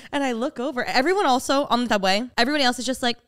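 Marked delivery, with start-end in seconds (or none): none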